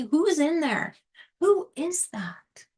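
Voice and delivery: whispered, wondering question to her own reflection; hushed mirror question. Pretend. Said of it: "look in the mirror ... and say".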